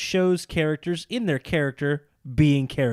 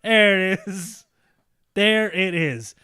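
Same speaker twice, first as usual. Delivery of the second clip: excited reveal; 4 semitones higher, 5 dB louder, slower than usual. Pretend. Mock announcer reveal.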